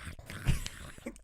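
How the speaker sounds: unvoiced open-mouthed crunching noise; cat chomping imitation. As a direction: mimic a cat munching chips. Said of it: "They sound just like that".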